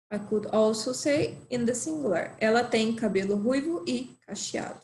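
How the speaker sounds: ordinary talk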